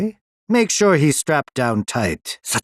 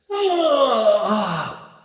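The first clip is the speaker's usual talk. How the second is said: long, high falling "ah"; theatrical sigh; 9 semitones higher than usual. Acted. Villain receiving late visitors, theatrical sigh. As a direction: let out a drawn-out sighing ah.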